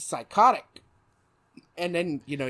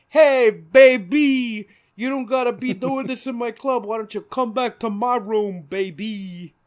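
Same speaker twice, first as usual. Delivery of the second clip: Penguin; 6 semitones higher, 7 dB louder than usual. Acted. Penguin coming on to someone in his club, thick accent. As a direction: lay on a thick, loud mobster accent. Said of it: "the Penguin's like; he has this thick fucking accent".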